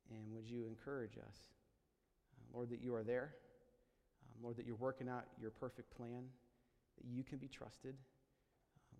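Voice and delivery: gently subdued, unhurried public prayer; spoken prayer. Real, not acted. Pastor praying to God with his congregation, subdued prayer.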